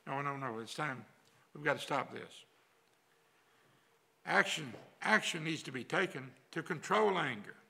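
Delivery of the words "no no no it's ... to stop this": soft urging. Retold or imitated. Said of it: "or it's".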